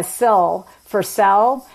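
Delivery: slow "sell" for sale; merged vowel before L. Shown as a demonstration. Expert repeating the Utah example, slow "sell" for sale. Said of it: "what you're talking about".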